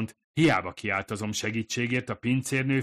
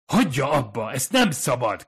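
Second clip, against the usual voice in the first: sharp, louder warning cry, pitched up; shouting; 5 semitones higher, 8 dB louder than usual. Acted. Kadzu shouts at Fumiko to stop grabbing the woman, loud warning. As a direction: stop her before it's too late. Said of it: "kiáltott rá Kadzu".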